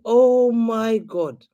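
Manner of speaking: slow, fed-up reaction; exasperated disbelief. Retold or imitated. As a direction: stretch the words in mock despair. Exasperated reaction to fans' replies.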